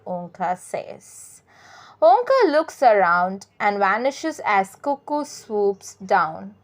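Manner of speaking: slow, deliberate read-aloud for learners; measured classroom story narration. Acted. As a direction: read it out sentence by sentence, carefully paced. Reads a short story aloud.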